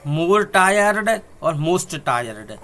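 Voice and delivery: teacher dictating forms very slowly; slow dictation. Shown as a demonstration. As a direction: dictate each word slowly. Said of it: "tired".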